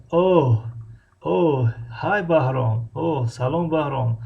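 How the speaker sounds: happily surprised hello on the phone; delighted surprise. Acted. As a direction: greet a friend you were just thinking of. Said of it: "چیز تعجبی است".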